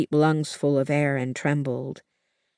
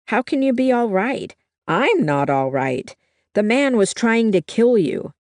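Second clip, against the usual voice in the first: alarmed protest; 6 semitones higher, 4 dB louder than usual. A narrator's reading. Frightened granddaughter protests.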